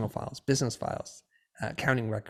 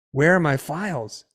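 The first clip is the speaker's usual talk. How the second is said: imitating an annoyed wife, louder and higher; unfriendly; 5 semitones higher, 7 dB louder than usual. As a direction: demand it accusingly, mimicking her. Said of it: "not in a friendly tone".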